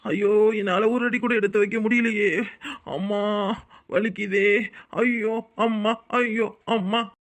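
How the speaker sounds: drawn-out moans of pretend pain; feigned pain wailing. Man faking injury to lure the woman out, wailing theatrically. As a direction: ham up an injured leg, stretching the cries. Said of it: "இப்படி காட்டு கத்து கத்துறோம்".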